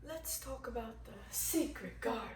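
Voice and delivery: soft, low, intimate invitation; hushed confiding. Acted. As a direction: confide it softly like a secret. Coaxing the boy into imagining.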